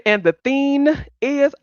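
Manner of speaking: THING stretched into "theen"; mispronounced thing. Retold or imitated. Quoting Rodney's habit, THING drawn out as "theen". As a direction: slowly mimic THING without its final g. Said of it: "Every time you say".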